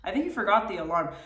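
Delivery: nagging inner voice. Retold or imitated. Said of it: "this was my favorite".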